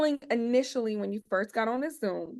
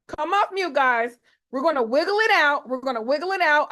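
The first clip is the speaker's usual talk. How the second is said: hype call; 3 semitones higher, 4 dB louder than usual. Real, not acted. Host hyping Zoom group.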